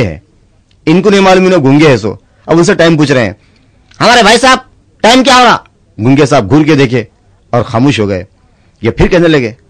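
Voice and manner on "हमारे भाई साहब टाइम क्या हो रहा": polite asking voice. Acted. Polite man asks mute the time.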